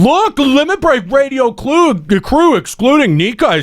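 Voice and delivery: high, slow mocking read of chat. Shown as a demonstration. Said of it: "in the chat saying".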